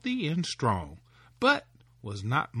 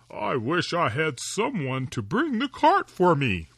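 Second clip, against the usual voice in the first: a touch louder, wishful; lightly voiced woodman; 2 semitones higher, 4 dB louder than usual. Woodman readying for the forest, lightly wishful. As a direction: grumble a wish half to himself.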